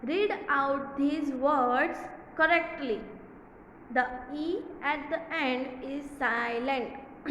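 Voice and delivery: very slow, careful reading of the exercise; slow read-aloud. Shown as a demonstration. Teacher reading the exercise aloud to children. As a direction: read the instruction word by word. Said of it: "reads instruction slowly".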